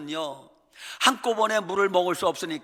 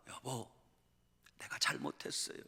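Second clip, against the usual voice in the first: hushed, whispered apology; whispered plea; 6 semitones lower, 15 dB quieter than usual. Pretend. Wife whispers her apology to her husband. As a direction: breathe the apology softly.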